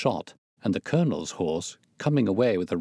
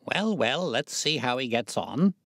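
lightly unruffled, soothing lilt; easy, untroubled reassurance; imperturbable; 5 semitones higher than usual. A narrator's reading. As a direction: brush off the fuss calmly. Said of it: "said my friend imperturbably".

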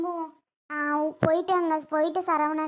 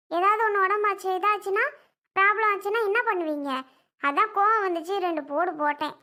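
heated defence; 4 semitones higher, 3 dB louder than usual. Acted. Mother defends hitting child.

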